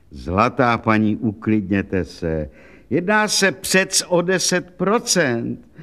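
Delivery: slow, patient calming words; soothing official. Acted. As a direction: settle her down gently and slowly. Clerk calming weeping woman.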